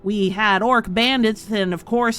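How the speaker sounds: he bristles at an insult; pompous townmaster. Acted. Townmaster answers players.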